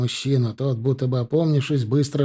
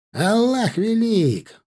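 exclamation; 8 semitones higher, much slower than usual. A narrator's reading. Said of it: "воскликнул тут же Имран".

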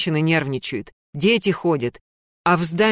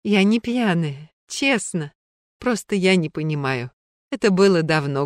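со слезами; 4 semitones higher than usual. Acted. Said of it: "и заплакала".

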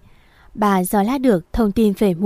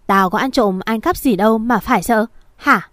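shrill mother. Acted. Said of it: "cái giọng chua ngoa của bà".

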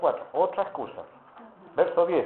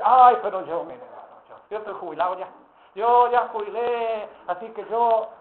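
excusa de jubilado; 3 semitones higher than usual. Retold or imitated.

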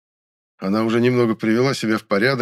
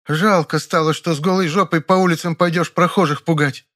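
venomous; 8 semitones higher, 4 dB louder than usual. A narrator's reading. Continuing venomous jab.

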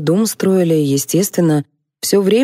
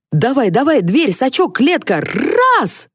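higher, rising to a shrill cry; excited commands; 8 semitones higher than usual. A narrator's reading. Генри командует ловлей гостя, возбуждённо. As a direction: hurry everyone into action.

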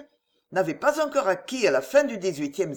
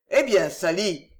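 joyful call; 4 dB louder than usual. Acted. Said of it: "cria ... une voix joyeuse".

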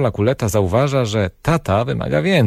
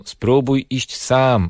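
imitating a parent; 3 semitones higher, much slower than usual. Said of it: "Najpierw mówią".

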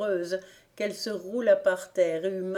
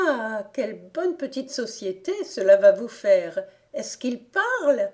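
higher, louder exclamation; delighted excitement; 4 semitones higher, 7 dB louder than usual. A narrator's reading. Amy hears the friends have a baby brother, delighted excitement. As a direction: lift the voice high in acted delight.

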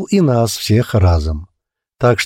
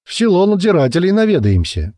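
put-on drunken yell; 6 semitones higher than usual. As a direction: bellow it like a drunk ready to brawl. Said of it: "пьяно заорал Клоп".

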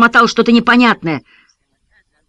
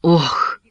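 defeated groan. A narrator's reading. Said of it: "выдохнул, словно простонал".

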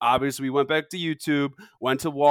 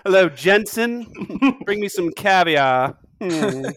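slow, lightly posh master voice; posh rich employer; 2 semitones higher, slower than usual. Pretend. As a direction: order the butler around lazily. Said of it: "sounds like a butler's name".

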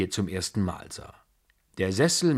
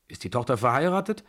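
put-on higher, fast, blunt old-lady question; blunt grandmother; 6 semitones higher, 4 dB louder, faster than usual. A narrator's reading. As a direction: fire it off without ceremony. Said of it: "fragte die Babuschka sehr unzeremoniös". (unverblümte Großmutter, schnell und laut)

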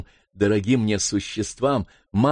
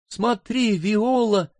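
higher, startled cry; frightened cry; 11 semitones higher, much slower than usual. Acted. Sister cries out to Viola in fright, higher. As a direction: she spots the monster. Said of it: "кричала сестра дрожащим голосом".

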